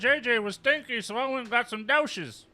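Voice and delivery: high, loud granny squawk; squeaky old woman shouting; old lady voice. Pretend. Continuing granny bit.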